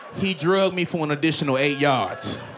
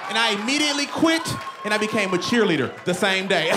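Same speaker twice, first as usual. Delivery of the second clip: punchline shout; 6 semitones higher, faster than usual. Real, not acted.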